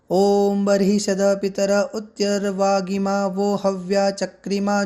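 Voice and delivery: measured, slow Vedic chanting cadence; mantra recitation. Acted. Teacher intoning the Pitru Sukta mantra for learners, slow chant. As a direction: recite it like a priest intoning a sacred verse.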